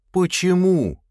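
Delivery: high, loud protesting question; blurted out. A narrator's reading. Lad bursts out at being silenced, blurted protest. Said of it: "вырвалось у парня".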